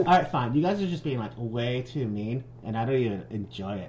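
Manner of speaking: lightly voiced sulky Valley Girl; a hint of Valley Girl huff, slowing. Stede sulking at the guys, light Valley Girl. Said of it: "I'll be Valley Girl".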